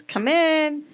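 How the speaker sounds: a mom's stern call to come inside; firm mom call. Retold or imitated. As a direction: snap it out like a mom who means it. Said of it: "taps on your shoulder and says".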